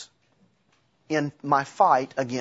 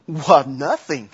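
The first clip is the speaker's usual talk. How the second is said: smug laughing; 5 dB louder, slower than usual. Retold or imitated. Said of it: "I would have said".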